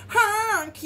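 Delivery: high, loud mock-alarmed honk; scared honk. A narrator's reading. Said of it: "and he sounded scared".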